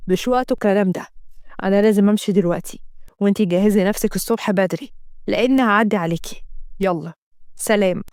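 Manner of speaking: lightly voiced dismissive man. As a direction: brush her off and leave. Assem cutting her off.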